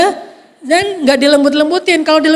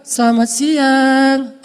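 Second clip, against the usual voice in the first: draws the greeting out slowly and sweetly, like a seductive operator; sultry phone voice; much slower than usual. Retold or imitated. (sapaan telepon yang pelan dan dilembut-lembutkan)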